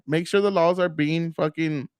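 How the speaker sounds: talking with something in the mouth; words round something stuck in the mouth; mouth full. Real, not acted. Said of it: "That's something stuck in my mouth".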